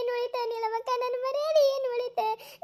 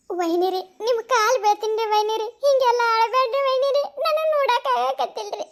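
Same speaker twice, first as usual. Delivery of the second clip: acted weepy apology to a sister-in-law; tearful pleading. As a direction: beg her to stop crying, near tears yourself. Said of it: "ಇಬ್ರು ಅಳ್ಕೋತ ಕೂತ್ರೆ".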